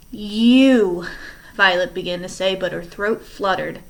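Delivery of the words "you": shocked accusation. Acted. Violet confronts Stefano.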